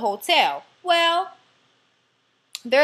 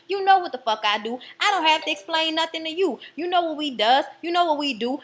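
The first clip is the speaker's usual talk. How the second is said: mock tirade, pitched up; retold telling-off with rising insistence; sassy confrontation; 4 semitones higher than usual. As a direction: act out someone indignantly setting a doubter straight. Acted confrontation in retold TV scene.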